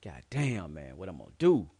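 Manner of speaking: reliving the moment he broke down, loud and desperate; retold despair. A man back from jail, alone at home, crying out in despair. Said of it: "I'm like".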